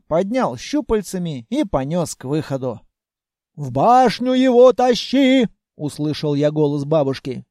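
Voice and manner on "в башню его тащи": louder, higher order; barking orders across the room; commanding shout. Acted. Grandmother ordering Senya to carry him, loud.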